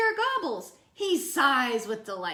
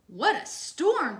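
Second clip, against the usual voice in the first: wren voice; 4 semitones higher, 4 dB louder, slower than usual. Acted. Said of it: "twitters wren".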